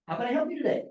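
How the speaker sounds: high-pitched, upward-lilting customer greeting; rising inflection. Shown as a demonstration. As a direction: let the voice climb high through the question. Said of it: "What's my voice doing? ... Coming up, right?".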